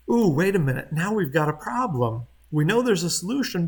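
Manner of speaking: loud, booming lecture voice; professor voice. Real, not acted. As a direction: project like filling a lecture hall. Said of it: "I'm using my professor voice".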